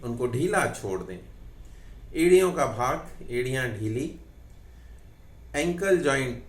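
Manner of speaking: measured yoga nidra instruction with long pauses; name each body part unhurriedly, pausing to let it loosen; guided relaxation. Acted. Yoga teacher guiding students to relax each body part, measured guided relaxation.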